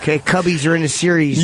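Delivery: put-on Chicago accent; broad Chicago local talk. Shown as a demonstration. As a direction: brag in a hammed-up Chicago voice. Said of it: "I do my Chicago accent thing".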